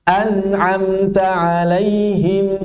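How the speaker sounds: An'amta alaihim slow and clear for students; model to repeat. Shown as a demonstration. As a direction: read An'amta alaihim slowly for them to copy. (contohkan An'amta alaihim untuk ditirukan)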